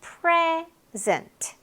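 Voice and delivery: "present" as slow, high PRE-zent, syllables apart; stress on first syllable. Shown as a demonstration. Teacher breaks down the noun, "present" stressed on PRE. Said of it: "선물도 되고".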